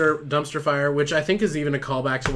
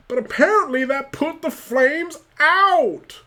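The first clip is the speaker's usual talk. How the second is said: a deliberately stupid superhero voice; Batman voice; 13 semitones higher, 8 dB louder than usual. Acted. Batman puzzled his grappling hook worked, hammed-up silly voice. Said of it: "My fucking Batman voice is so stupid".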